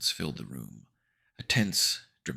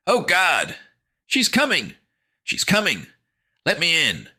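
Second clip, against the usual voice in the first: high, loud panicked cries; desperate, pitched-up outbursts; frantic crying; 14 semitones higher, 8 dB louder than usual. A narrator's reading. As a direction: wail in terror to be let in. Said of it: "frantic crying".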